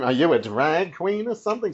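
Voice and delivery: accusing drag queen tone; sassy, accusing drag queen question. Shown as a demonstration. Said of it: "Sounding like a drag queen accusing another drag queen".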